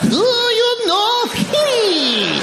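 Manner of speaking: put-on very high, very slow sung-out Japanese accent; exaggerated Japanese accent. Comedian overdoes the waitress's Japanese accent for laughs. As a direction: ham up the waitress's accent wildly. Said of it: "exactly what she said".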